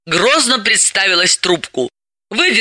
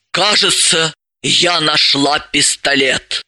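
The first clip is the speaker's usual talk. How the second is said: amazed pride; 2 semitones lower, slower than usual. Acted. Elizaveta tells Dalila, slow and amazed. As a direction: let it out, stunned and proud. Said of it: "выдохнула с изумлённой гордостью".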